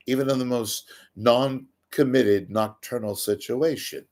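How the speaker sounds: lightly put-on British accent. Seminar speaker on Lisa and Denny, mock British accent. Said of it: "Why am I talking British?".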